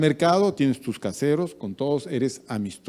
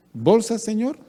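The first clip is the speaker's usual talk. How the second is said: 1 cajero cortés; 8 semitones higher than usual. Retold or imitated. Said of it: "le dice".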